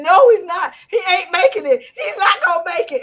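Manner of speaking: loud, high sobbing protest, imitated; crying shout of a small child, retold; imitating crying child. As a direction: play the kid wailing he won't make it. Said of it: "And he was screaming".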